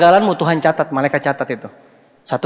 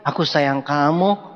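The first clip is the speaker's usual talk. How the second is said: soft and slow, a quiet car-ride love line; husband softly telling his wife he loves her; soft romantic; 4 semitones lower, 5 dB quieter, slower than usual. Retold or imitated. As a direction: say it gently, no need to raise your voice. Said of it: "Yasin ngomong ke Koli".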